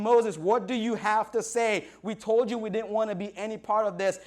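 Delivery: imitated panicky protest; freaking-out Israelites. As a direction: demand answers from your leader, agitated. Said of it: "they're freaking out".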